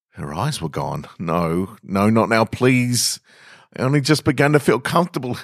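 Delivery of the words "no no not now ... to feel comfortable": building from hushed to high, rushed begging; rising desperate plea. Acted. Man begs vanishing lover to stay, rising panic. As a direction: plead faster and higher as she slips away.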